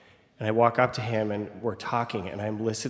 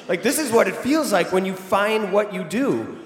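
much higher and louder, laughing; euphoric; 9 semitones higher, 6 dB louder than usual. Real, not acted. Telling the audience he found his calling, euphoric. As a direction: ride the high of being a hero. Euphoric after saving the baby.

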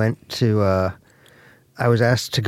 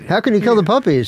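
high, louder appalled question; outraged disbelief; 8 semitones higher, 4 dB louder than usual. Retold or imitated. Joke crowd objecting to killing puppies, high and outraged. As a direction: ask it as if scandalized.

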